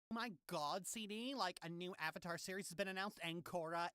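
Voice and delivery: put-on soft gossipy girl; gossip voice. Shown as a demonstration. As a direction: dish the gossip. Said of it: "Got the gossip voice down so well".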